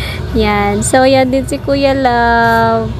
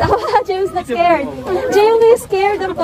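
laughing; 7 semitones higher than usual. Real, not acted. Teasing scared husband, laughing.

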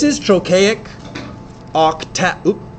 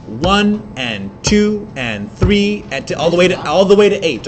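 counting the beat. Shown as a demonstration. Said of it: "do me a favor".

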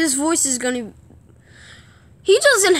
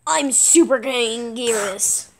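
Anguirus; 3 semitones lower, slower than usual. Pretend. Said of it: "And this is Anguirus".

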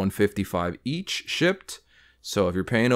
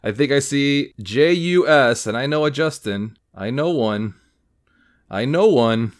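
rising excitement; 4 semitones higher, 5 dB louder than usual. Real, not acted. Collector spotting a hot card, building excitement. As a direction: build up the reveal.

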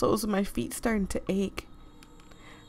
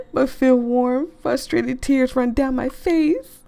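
high, loud laughing through words; 4 semitones higher, 6 dB louder, slower than usual. Real, not acted. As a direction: laugh while reading it. Reading while laughing-crying.

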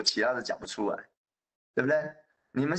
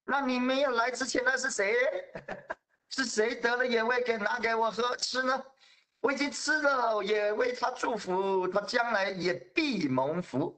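higher, dismayed disbelief, slowing at the end; shocked Isaac; 9 semitones higher than usual. Acted. Isaac realizes he blessed the wrong son, shocked. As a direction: reel in shock, then settle into resignation. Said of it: "以撒就大大的震惊啊".

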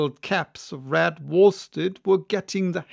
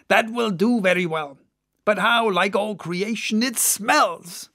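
lightly voiced sailor, a bit higher; jolly mate holding his nose; a touch of Stubb; 4 semitones higher than usual. Stubb mocks the stinking ship, lightly voiced.

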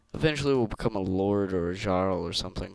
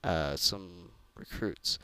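tired. Real, not acted. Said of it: "sorry if I'm talking weird".

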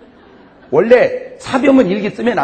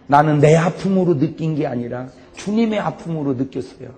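normal talking voice

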